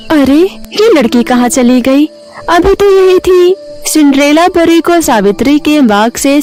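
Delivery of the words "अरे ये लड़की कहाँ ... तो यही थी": mildly puzzled, pitch lifting at the end; surprised. Acted. Old woman finds the girl gone, surprised. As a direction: wonder aloud in mild surprise. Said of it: "हैरानी से बोली".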